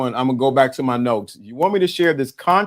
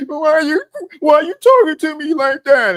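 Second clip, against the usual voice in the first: very high mock-tearful whine; crying man; 12 semitones higher, 3 dB louder than usual. Man hurt by how he's spoken to, mock crying. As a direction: squeal it like a hammed-up crybaby. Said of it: "And he started crying".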